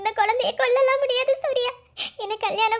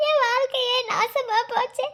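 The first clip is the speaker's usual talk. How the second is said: slow sobbing lament; slow tearful wail; crying. Acted. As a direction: weep for a ruined life. Abandoned woman weeps.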